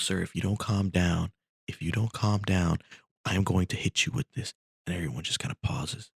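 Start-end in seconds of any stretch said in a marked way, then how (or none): 0.0-4.5 higher-pitched acted ultimatum; lightly acted warning; warning flight attendant. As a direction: threaten an unruly passenger, without raising the volume. Attendant threatens passenger with an iron.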